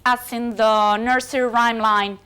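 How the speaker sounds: usual speaking voice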